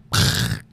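voiceless burst for a smack; imitated impact noise. Retelling a face hitting the control panel, imitated smack noise. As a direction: make a short crashing noise with the mouth.

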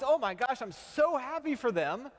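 high, loud, overdone cheer; gushing mock joy. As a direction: ham up the happy-for-them gush. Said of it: "Is our initial response".

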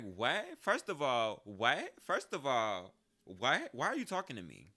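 put-on high incredulous teen protest; indignant disbelief. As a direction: squeal it, baffled and offended. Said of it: "That's how I felt".

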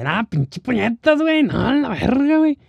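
Monterrey stereotype. Retold or imitated. Mocking the stereotyped Monterrey accent, in a high norteño voice. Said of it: "el estereotipo de Monterrey".

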